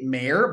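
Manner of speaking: "mayor" in a Southern accent, run into one syllable. Real, not acted. Host owns up to his Southern "mayor", accented pronunciation. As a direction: say "mayor" like "mare", Southern style. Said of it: "I can't properly say mayor".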